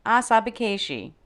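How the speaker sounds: Asabekeshi said again as one clean word, stress falling at the end; word repeated for learners. Shown as a demonstration. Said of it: "This episode's word is asabekeshi".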